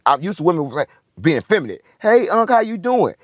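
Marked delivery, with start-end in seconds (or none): 2.0-3.1 mock woman greeting. Imitating women greeting him.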